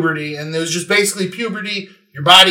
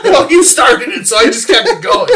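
put-on Southern accent; 10 semitones higher, 5 dB louder than usual. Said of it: "talk in a Southern accent".

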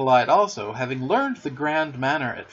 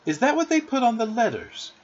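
nicely; 9 semitones higher than usual. A narrator's reading. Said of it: "Wendy said nicely".

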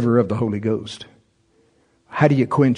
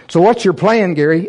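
flustered; 5 semitones higher, 5 dB louder than usual. Retold or imitated. Asking himself in panic.

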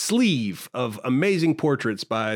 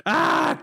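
scream. Pretend. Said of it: "that second scream is me".

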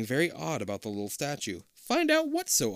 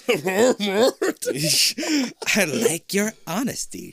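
creepy monster voice; 9 semitones higher, 7 dB louder, slower than usual. Acted. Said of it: "she says".

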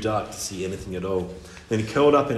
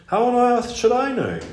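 exasperated mermaid voice; 13 semitones higher, 5 dB louder than usual. Acted.

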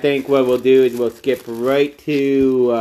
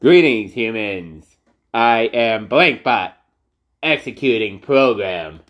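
put-on old speech synthesizer; 3 semitones lower than usual. Robot card voice.

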